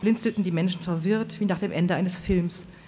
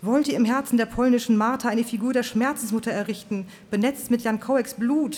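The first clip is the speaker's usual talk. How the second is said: fiery preacher; 6 semitones higher, 3 dB louder than usual. Acted. Preacher Swan's fiery speech.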